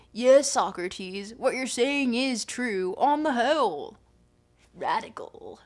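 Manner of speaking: put-on laid-back California surfer accent. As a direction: read it like a SoCal surfer dude. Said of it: "I'm trying to do surfer accent".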